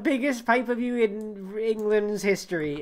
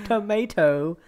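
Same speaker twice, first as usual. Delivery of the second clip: 1 American tomato; 3 semitones higher, slower than usual. Pretend. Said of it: "that's how they say tomato".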